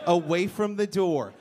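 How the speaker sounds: "Away from the door" said slowly and deliberately; slow repeat. Shown as a demonstration. Repeating the girlfriend's demand, slowly. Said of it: "I wanna sleep away from the door".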